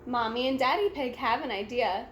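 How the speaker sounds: usual speaking voice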